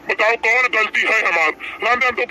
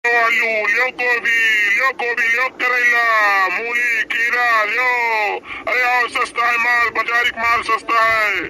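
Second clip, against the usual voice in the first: melodic vegetable vendor call. Acted. Vegetable seller calling customers.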